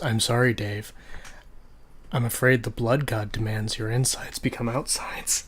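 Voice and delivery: calm deep robot monotone. Pretend. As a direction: speak like a cold AI computer. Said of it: "Deep robot voice".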